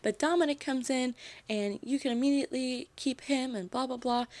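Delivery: retold blow-up. Fired host to her boss, retold indignant outburst. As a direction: imitate an aggrieved rant without really shouting. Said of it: "She blows up on him".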